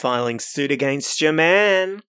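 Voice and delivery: drawled mock Australian accent; comic Australian accent with a stretched last word. Shown as a demonstration. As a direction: put on an Australian accent, amused. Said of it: "how do you do an Australian accent?".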